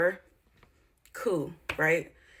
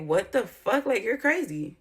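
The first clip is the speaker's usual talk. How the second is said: retold shocked outburst; 5 semitones higher, slower than usual. Retelling reaction to thrown plate.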